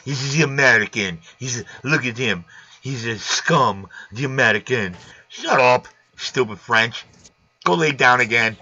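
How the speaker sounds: low, muttered mock French accent; badly faked French accent. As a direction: put on a poor French accent, low and dismissive. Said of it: "Is that your French accent".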